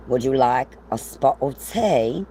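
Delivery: amateur mock British tea invitation; attempted British accent. Vlogger teasing folks across the pond, attempted British accent. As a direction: put on a playful British accent. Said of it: "try to do a British accent".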